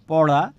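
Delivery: "পড়া" with the tongue touching behind the upper teeth-ridge; retroflex ড়. Shown as a demonstration. Teacher giving an example of the tongue position, retroflex "পড়া". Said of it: "পেছনের অংশটা লাগবে".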